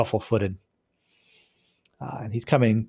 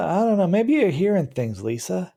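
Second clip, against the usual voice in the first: male voice; 8 semitones higher than usual. Acted. Male villain answers Lisa.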